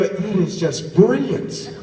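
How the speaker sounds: delighted amazement. Retold or imitated. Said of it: "You go".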